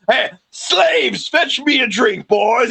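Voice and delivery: mock Southern plantation owner giving orders; plantation-owner Southern accent. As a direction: parody a Southern master calling for service. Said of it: "as plantation-y owner as possible".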